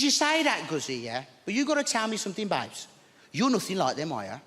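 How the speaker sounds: lightly voiced flustered old lady; Maud's voice. Maud voiced in story.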